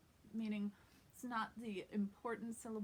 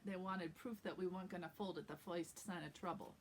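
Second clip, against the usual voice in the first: New York accent; 2 semitones lower, 3 dB quieter than usual. Shown as a demonstration. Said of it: "when I said the word Brooklyn or proof".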